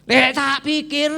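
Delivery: slow, high, loud Javanese-flavoured huff; Javanese phrasing. Acted. Naaman grumbling in Javanese about the prophet. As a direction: drawl it East-Java style. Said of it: "orang Jawa bilang".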